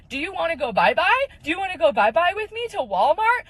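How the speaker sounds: high, lilting mock coo to a baby; imitated baby talk. Woman holding someone else's baby invites her along, imitated baby talk. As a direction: imitate someone sweet-talking a baby, pitch swooping up.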